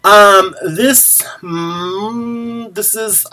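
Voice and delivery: talking through the hiccups; hiccupy, broken-up words. Real, not acted. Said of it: "I have the hiccups now".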